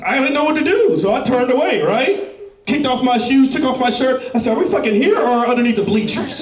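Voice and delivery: ramp it up like a wild fantasy; hyped fantasy. Retold or imitated. Geek imagining a bold comeback to his crush, hyped.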